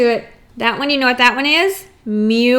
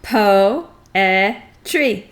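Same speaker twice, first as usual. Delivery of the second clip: slow syllable count; 3 semitones lower than usual. Shown as a demonstration. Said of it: "How many do you hear?".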